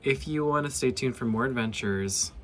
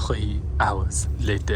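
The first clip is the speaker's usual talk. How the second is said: hushed documentary whisper, slow; whispered caption; 4 semitones lower, slower than usual. Pretend. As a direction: breathe it like a narrator.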